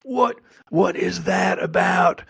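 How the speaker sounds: high, drawn-out cry of disbelief; incredulous outcry. Acted. Local reacting to the visitors' accents, incredulous. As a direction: call it out high and slow, appalled.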